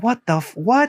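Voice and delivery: baffled what, jumping up high; flabbergasted rising what; confused. Retold or imitated. She retells her confusion at the tech, high baffled what. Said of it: "I'm like".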